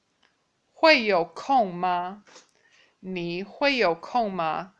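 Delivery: slow, careful question; slow demo. Shown as a demonstration. Teacher modelling the appointment question slowly. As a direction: sound it out for learners. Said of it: "then you would say".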